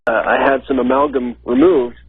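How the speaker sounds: usual speaking voice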